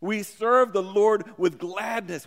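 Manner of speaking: "gladness" given emphasis in a slow line; slow down and land firmly on "gladness"; stress on GLADNESS. Shown as a demonstration. Preacher emphasizes how to serve the Lord, stressing "gladness". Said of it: "I want to emphasize the word gladness".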